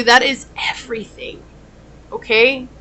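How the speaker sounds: hushed whisper to the viewer. Real, not acted. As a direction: breathe it as a secret. Soft aside to viewer.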